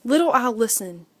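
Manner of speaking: ordinary delivery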